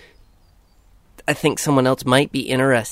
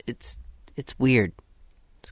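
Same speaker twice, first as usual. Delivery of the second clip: whispering; 5 dB quieter than usual. Pretend. Keeps whispering after the parody.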